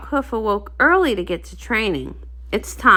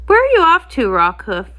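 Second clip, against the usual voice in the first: friendly call; 2 semitones higher, 4 dB louder than usual. Acted. Guard pony calls after him.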